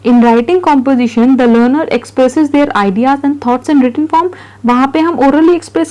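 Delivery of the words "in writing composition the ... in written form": reading notes aloud very slowly, word by word; slow dictation read. Acted. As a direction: spell it out for students to copy. Teacher reads notes aloud slowly. (धीमी गति से notes पढ़ना)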